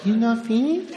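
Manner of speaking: put-on a subtler take on the accent; subtle Japanese accent. Comedian gives the subtle version of the waitress's accent. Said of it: "No, it was subtle".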